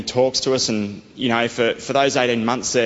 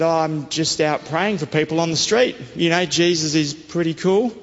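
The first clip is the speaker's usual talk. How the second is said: cheery pitch; 6 semitones higher than usual. Retold or imitated. Cheerfully telling strangers about Jesus.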